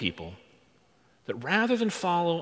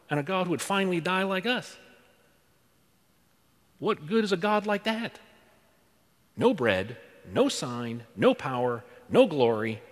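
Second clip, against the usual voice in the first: blurted protest; 3 dB louder than usual. Retold or imitated. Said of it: "blurt out".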